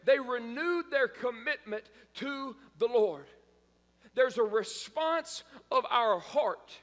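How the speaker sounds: driving sermon list; emphatic preaching. Real, not acted. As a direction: preach it point by point, punching each one. Preaches with rising force.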